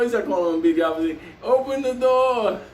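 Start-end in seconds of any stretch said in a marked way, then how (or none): 1.4-2.6 higher-pitched call through a door; retold demand. Intruder orders trapped man to open up, retold insistent demand. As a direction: imitate someone demanding entry.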